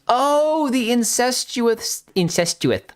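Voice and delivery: high, drawn-out "oh" of realization; sudden recognition. Real, not acted. Streamer recalling an actor's infamous role, sudden recognition. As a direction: stretch it out high as it dawns on you.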